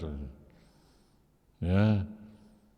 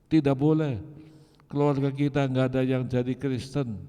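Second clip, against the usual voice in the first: angry forbidding; 5 semitones higher, faster than usual. Retold or imitated. Father forbids his son to become Christian, high and fast. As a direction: lay down the law, no room to argue.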